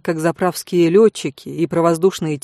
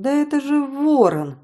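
surprised; 8 semitones higher than usual. Acted. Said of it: "удивилась я".

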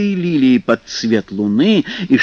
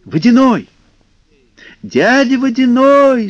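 calling out; 11 semitones higher, 5 dB louder than usual. Acted. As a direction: call him from afar. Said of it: "стали звать русалки".

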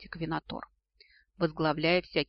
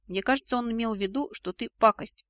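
small, higher-pitched timid voice; 6 semitones higher, 4 dB louder than usual. A narrator's reading. Right half of the brain to its owner, timid. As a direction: venture it meekly. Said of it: "робко вздохнула правое полушарие".

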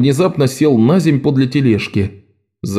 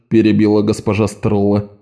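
ordinary delivery, nothing marked

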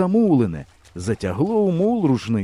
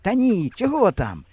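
blurted out; 8 semitones higher than usual. A narrator's reading. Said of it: "вихопилося в мене".

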